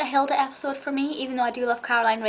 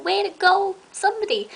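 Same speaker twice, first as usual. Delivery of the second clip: higher, louder sarcastic cheer; mock cheer; 8 semitones higher, 5 dB louder than usual. Imitating her favourite Sabrina quote at people, high mock cheer. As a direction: throw it at someone like a teasing cheer. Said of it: "but I'm like".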